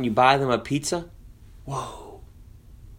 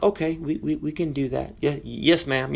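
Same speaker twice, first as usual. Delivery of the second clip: softer, calm reassuring reply; 5 dB quieter than usual. Retold or imitated. Manager calmly answering the furious customer, soft and calm. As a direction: gently settle her down. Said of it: "in a very calm voice".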